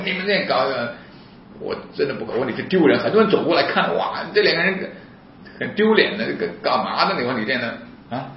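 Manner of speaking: high-pitched indignant scolding; retold anger. Speaker scolds police in the office, retold anger. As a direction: scold them, acting out the outrage. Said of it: "我就发怒".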